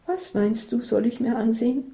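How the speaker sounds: Isabel, unimpressed friend. Acted.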